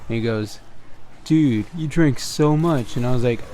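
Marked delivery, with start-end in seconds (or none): 1.2-3.0 slow, drawn-out disbelief; mildly mock-appalled, dragging the words; retold stunned reaction. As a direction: stretch it out like a stunned friend. Friend's shocked reaction, retold.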